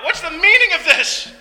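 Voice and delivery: startled, high-pitched outcry; frightened cry. Acted. Man startled awake by friends picking up his mat, frightened. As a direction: cry out in alarm, pitched well up. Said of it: "Frightened, he cried out".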